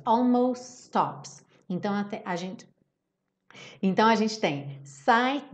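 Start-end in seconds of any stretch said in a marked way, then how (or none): 0.0-1.5 "Almost stops" with the final T dropped and the two S's joined, ɔlmoss tɔps; linked almost stops. Shown as a demonstration. Teacher demonstrating linked lyrics, T dropped and S's merged. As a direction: drop the T of "almost" and slide into "stops". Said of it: "eu tiro o T final do almost e junto os S's".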